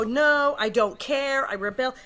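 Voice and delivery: punchy mock defiance; acted rebellion. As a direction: dig in like a rebellious girl. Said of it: "it's more rebellion. What, I go".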